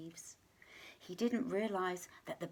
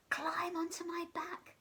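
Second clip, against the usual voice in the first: squeaky giraffe; 9 semitones higher than usual. Acted. Giraffe squeaking to the animals to climb on. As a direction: squeak kindly but high. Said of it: "squeaked in his high voice".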